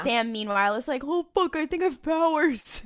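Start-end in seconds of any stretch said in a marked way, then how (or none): 1.0-2.8 high, loud hammed-up alarm; mock panic. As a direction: play a character freaking out at a discovery.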